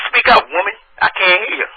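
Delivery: exasperated countrified prank caller; country voice. Pretend. Prank caller telling woman to speak up, country accent. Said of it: "my country ass voice".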